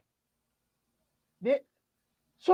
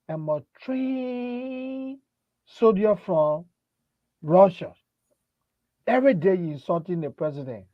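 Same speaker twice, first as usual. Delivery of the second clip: put-on Russian soldier accent; 3 semitones lower than usual. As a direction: draw out the words like a self-styled Russian soldier. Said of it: "put the thing in the man accent".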